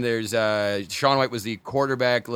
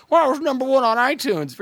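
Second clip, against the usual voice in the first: high, louder bragging boast; smug boast; 13 semitones higher, 5 dB louder than usual. Retold or imitated. Mocking artists bragging about iTunes, higher smug boast. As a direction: brag like a smug chart-topper. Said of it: "for the idea of".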